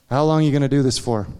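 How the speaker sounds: a hint of a low, searching inner voice; voice of God, lightly voiced. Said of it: "I hear this voice say this".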